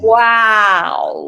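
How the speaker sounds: loud stretched wow; articulation warm-up. Shown as a demonstration. Coach showing a lip warm-up, big loud wow. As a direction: open the mouth wide on wow. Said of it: "simply be like saying boo".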